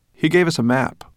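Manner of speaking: high, loud, eager announcement; excited boy. A narrator's reading. The boy telling the dragon about the map, excited. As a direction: break the good news loudly.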